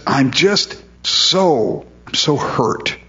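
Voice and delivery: slow, breathy whisper of hurt; hurt and grieving. Acted. The Lord grieving over his suffering people, hushed and slow. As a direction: let the hurt drain the voice.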